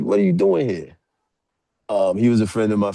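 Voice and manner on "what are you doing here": imitating a dad catching an intruder; high-pitched mock alarm; startled challenge. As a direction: demand it high, as the retold father. Girlfriend's dad catches him.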